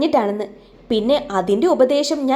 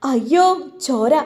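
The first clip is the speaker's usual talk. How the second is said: alarmed cry. Acted. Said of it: "അവളും കരച്ചിലായി".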